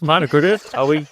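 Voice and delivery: teasing outrage; mock offended echo. Real, not acted. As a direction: pretend to take offence, playfully. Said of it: "I was glossing over that".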